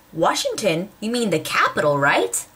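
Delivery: swooping mock-puzzled questions; confused questioner. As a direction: mimic someone clueless, pitch sliding up and down. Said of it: "I respond".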